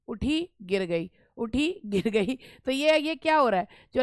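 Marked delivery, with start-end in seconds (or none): 0.1-2.4 slow alternating beat on उठी, then गिर गई; rise-fall rhythm. Shown as a demonstration. Teacher showing students falling rhyme, slow rise-fall rhythm. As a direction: draw out उठी and गिर गई as two separate beats. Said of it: "यहाँ पर आवाज़ जो है वो गिर रही है".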